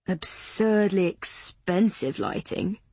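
slow, dry grumble; grumbling. Acted. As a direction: grouse about the cost. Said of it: "Patrick grumbled".

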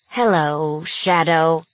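growled. Acted. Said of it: "growled the robot".

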